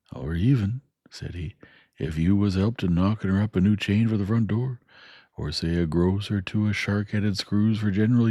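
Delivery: homely Joe spelling out the parting; Joe the blacksmith. Acted. Joe voiced in story.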